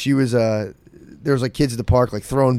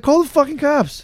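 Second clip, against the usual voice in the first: mock shouted order. Brittany urging the neighbor to phone police, high mock yell. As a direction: belt it like she's fed up. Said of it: "And Brittany's like".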